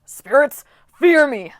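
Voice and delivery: loud, high battle bellow; bellowing goat coach. Acted. Coach Hedge bellowing a challenge at the spirits. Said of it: "Hedge bellowed".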